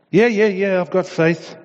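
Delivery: very high, hurried panicked agreement; frantic yeah. Acted. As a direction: squeak it out in desperation. Terrified man eagerly answers voice.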